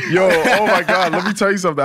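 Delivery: loud, high burst of remembering; blurting it out before it's forgotten; sudden excitement. Real, not acted. Friend suddenly remembers a story to tell the room, loud and high.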